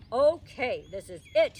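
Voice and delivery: loud, grouchy warning; a fed-up dad putting his foot down; father scolds his daughter back to bed, loud and grouchy. Acted. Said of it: "he grouched".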